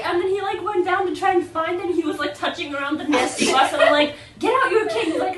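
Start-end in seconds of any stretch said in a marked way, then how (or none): 4.4-5.0 insistent retold order, raised and louder; urgent order. Telling a blind friend to take out the cane, insistent. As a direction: urge him, voice lifted.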